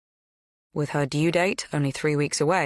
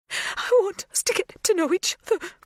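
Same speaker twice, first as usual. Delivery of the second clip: tearful, muffled behind her hands. A narrator's reading. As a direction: speak through covered face, crying. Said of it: "the words muffled by her hands".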